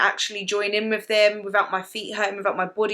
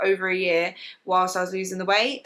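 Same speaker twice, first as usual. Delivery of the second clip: ordinary talk, nothing marked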